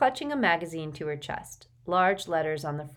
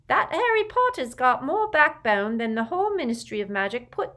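Neville's voice; 5 semitones higher, 6 dB louder than usual. A narrator's reading. Neville quotes his gran's praise.

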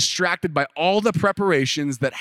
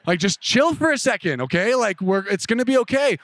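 calming reassurance; 7 semitones higher than usual. Retold or imitated. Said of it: "to calm her down".

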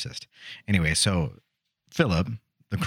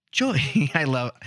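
put-on Korean accent, a lifted gentle hail; Korean accent impression; 3 semitones higher, slower than usual. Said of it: "he was like".

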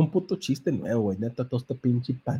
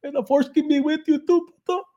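high mock-solemn send-off; lightly hammed high voice; sarcastic comeback; 14 semitones higher than usual. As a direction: deliver it like a grand farewell. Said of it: "I was like".

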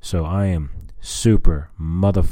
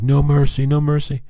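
high, loud mock battle cry; imitated yelling; 9 semitones higher, 4 dB louder than usual. Player yelling at laser tag rivals, high mock yell. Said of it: "I kept yelling".

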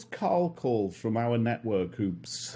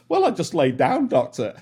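sheepish; 4 semitones higher, 4 dB louder than usual. Retold or imitated. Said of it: "I felt stupid saying".

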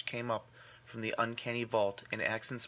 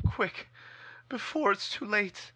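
soft hopeless resignation; 9 semitones higher, slower than usual. Acted. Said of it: "acquiring a softer quality, as of hopeless resignation".

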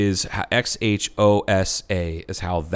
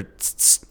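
tongue click demo; 7 dB quieter than usual. Shown as a demonstration. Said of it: "he said there's".

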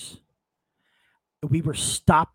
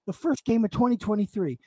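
agitated fan rant, raised and fast; ranting at the team; 3 semitones higher than usual. Retold or imitated. Fan cursing his team to his dad, angry rant. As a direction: curse the team out in the car. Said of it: "cursing Inter out".

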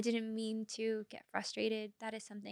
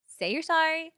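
firm advice; 6 semitones higher, 8 dB louder than usual. Real, not acted. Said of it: "coaching how to apologize".

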